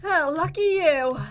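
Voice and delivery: half-hearted "good for you"; unenthusiastic congratulation. Real, not acted. Player responding to rival's loot, unenthusiastic. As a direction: congratulate without sounding happy about it. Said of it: "you don't sound happy for me".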